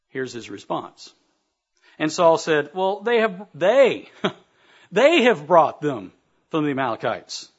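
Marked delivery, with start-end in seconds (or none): 2.7-7.5 flustered excuse. Acted. Saul stammering excuse to Samuel.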